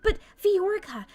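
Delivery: sweet commoner voice. Acted. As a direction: play the fawning lowly stepsister.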